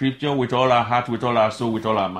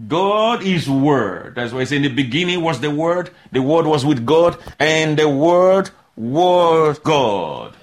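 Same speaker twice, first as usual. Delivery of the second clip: preaching proclamation; 3 dB louder than usual. Acted.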